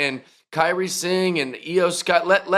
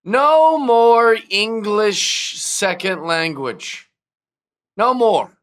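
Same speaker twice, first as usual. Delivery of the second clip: slow, loud, high decree; emphatic declaration; 5 semitones higher, 4 dB louder, much slower than usual. Real, not acted. The speaker ranting about wrestling promos, slow loud proclamation. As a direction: hammer each word like a proclamation. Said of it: "let me make a quick opinion".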